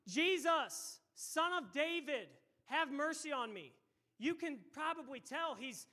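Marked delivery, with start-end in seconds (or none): 0.1-3.7 high, raised desperate plea; crying out. Acted. Preacher acts the blind beggar pleading, desperate cry. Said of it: "he's crying out, and he's screaming".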